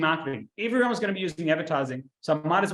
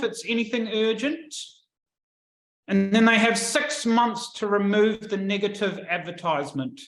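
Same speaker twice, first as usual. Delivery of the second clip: monotone voice; 5 semitones higher than usual. Retold or imitated. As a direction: drone it like a bored clerk. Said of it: "in the most monotone voice".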